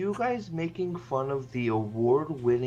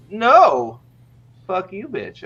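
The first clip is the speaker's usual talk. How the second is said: mock yelled insult; 5 semitones higher, 7 dB louder, slower than usual. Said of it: "and then she goes".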